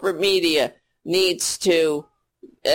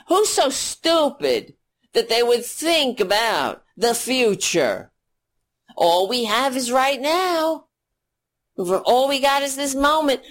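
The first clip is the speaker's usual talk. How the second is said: sarcastic mockery; 5 semitones higher than usual. Sarcastic voice of greedy Republicans.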